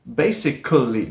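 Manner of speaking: "Basically" with the third-syllable schwa voiced; spelled-out basically. Shown as a demonstration. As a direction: say "Basically" as bay-sic-uh-lee. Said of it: "the way it's written".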